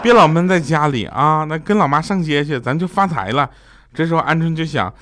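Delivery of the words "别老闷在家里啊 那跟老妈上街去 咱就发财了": lightly acted delighted mother, higher-pitched; gleeful. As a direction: coax with a touch of glee. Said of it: "她妈妈就喜滋滋地跑回家说". (略带喜滋滋地模仿妈妈)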